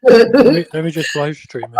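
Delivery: robot voice. Acted. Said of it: "that sounded robotic".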